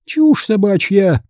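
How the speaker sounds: high, slow, scornful retort; haughty aunt's drawn-out scoff. A narrator's reading. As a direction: dismiss it contemptuously, drawing it out. Aunt scornfully dismisses the boy's fear.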